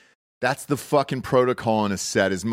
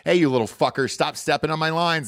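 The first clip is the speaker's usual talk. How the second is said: fun and flirty. Pretend. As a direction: tease him, light and flirty. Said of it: "said it fun and flirty".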